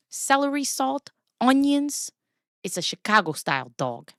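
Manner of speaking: put-on Chicago hot dog vendor accent; Midwestern accent. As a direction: play up a Midwestern accent, offering toppings. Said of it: "my Midwestern accent is so bad".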